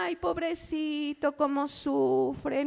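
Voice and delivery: suave y lento, con falsa pena; lástima burlona. Retold or imitated. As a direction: imita a quien sólo siente lástima. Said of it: "Compasión no es que te vea". (voz lastimera y lenta, de quien compadece sin ayudar)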